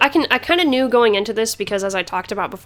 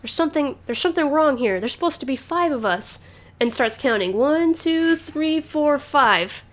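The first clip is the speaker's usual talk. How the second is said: lightly voiced puzzled ruby, a bit higher; top ruby; 6 semitones higher than usual. Host voicing the confused top ruby, lightly higher. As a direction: count them off like a slightly dim soldier. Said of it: "the one on top is like".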